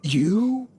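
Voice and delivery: whispered gasp of disbelief; stunned whisper. Acted. Merchant realizing who tricked him, whispered shock. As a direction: breathe it out in shock.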